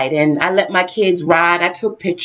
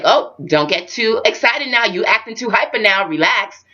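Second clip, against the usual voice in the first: acutely, not mean; 3 semitones higher than usual. Retold or imitated. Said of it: "I said to him very acutely, not mean".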